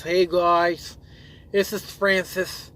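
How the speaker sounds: a hint of the Francis character, slowed down; lightly mock the slow Francis intro. Vlogger briefly imitating a YouTube character, a lightly voiced Francis. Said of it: "he talks like this".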